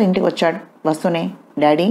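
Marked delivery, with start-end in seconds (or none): 1.6-1.9 first call, moderate call for dad; calling his father from the door. Acted. Son arrives home calling out to dad. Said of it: "అని అరుస్తూ వచ్చాడు".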